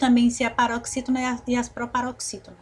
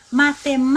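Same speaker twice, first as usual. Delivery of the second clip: louder "Matemática" with MÁ held very long; stretched MÁ; 2 semitones higher, 5 dB louder, faster than usual. Shown as a demonstration. Teacher shows it is as if we spoke this way, MÁ stretched. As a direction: punch and hold the MÁ in "Matemática". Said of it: "falássemos assim".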